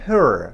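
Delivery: هر with the r curled from the back of the mouth; correct English r. Shown as a demonstration. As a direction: say هر with a clear American r. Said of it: "بگیم". (هر را با آر آمریکایی بگو)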